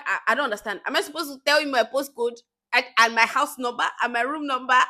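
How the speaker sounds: a touch of retold exasperation; baffled disbelief. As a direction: retell your own bewildered answer. Retold baffled reply to nosy colleague.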